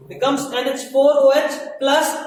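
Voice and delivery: slow dictation. Shown as a demonstration. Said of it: "देखो सही से लिख देना है".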